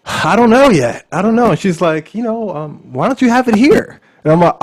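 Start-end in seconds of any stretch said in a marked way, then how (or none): 0.0-1.5 much higher, louder unsure voice; mock unsure. Voicing themselves, unsure. 2.1-4.0 voicing auntie.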